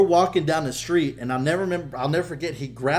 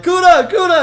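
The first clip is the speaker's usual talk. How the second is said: high, urgent repeated holler; yelling; 12 dB louder than usual. Retold or imitated. Calling back his fleeing cousin, yelling. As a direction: call out loudly after a runner. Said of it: "just yelling at him".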